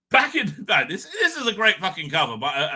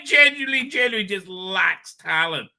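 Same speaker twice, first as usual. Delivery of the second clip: raised, higher ranting insistence; mock outrage; 3 semitones higher, 4 dB louder than usual. Ranting host scorns the new Doctor's acting, loud and higher. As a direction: hammer home the contempt, loudly. Ranting about an actor's talent.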